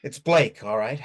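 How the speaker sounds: loud, fed-up answer; exasperated shout. Acted. Giving the stranger her name, loud and fed up. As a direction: spit the name out angrily.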